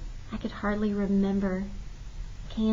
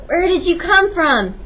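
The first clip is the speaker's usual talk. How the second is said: ochrypły okrzyk; 9 semitones higher, 7 dB louder than usual. A narrator's reading. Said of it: "he asked hoarsely".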